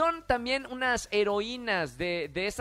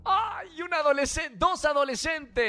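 surprised; 4 semitones higher than usual. Real, not acted. Host reacts to kids' ages.

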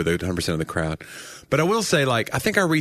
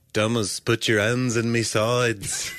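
a singer as Jesus; slower than usual. Retold or imitated. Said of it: "he would sound like a singer".

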